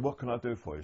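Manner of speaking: retold offer with a hint of American twang; American accent. Guard repeating his offer to the prisoners, lightly imitated American accent. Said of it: "in a very strong American accent, almost a Bronx accent".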